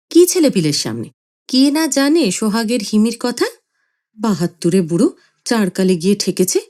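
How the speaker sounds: sharp mocking retort; wife snapping back; scornful scolding; angry retort. Mother retorts angrily.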